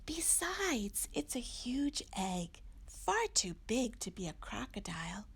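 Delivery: soft whispered reassurance; whispering. Acted. Mommy whispers to Little Owl about the egg. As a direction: keep it hushed and gentle.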